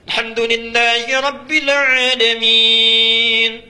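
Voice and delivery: slow, loud, high chanted recitation; imam's recitation. Acted. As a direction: lead prayer like a showy imam. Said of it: "Imamnya bagus mimpin sholatnya".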